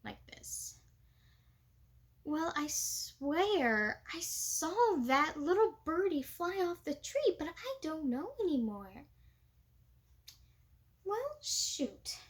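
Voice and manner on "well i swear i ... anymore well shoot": higher, slow, calm Southern accent; happy Southern Belle. Shown as a demonstration. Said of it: "my real happy side of my Southern Belle goes".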